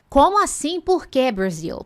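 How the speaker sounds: high, loud mock puzzled question; mock surprise. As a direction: play a puzzled student. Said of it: "mock student surprise". (aluno surpreso, fingido, agudo e alto)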